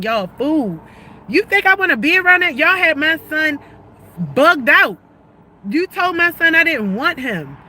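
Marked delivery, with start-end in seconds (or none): 1.3-6.2 angry outburst. Real, not acted. Angry rant at family.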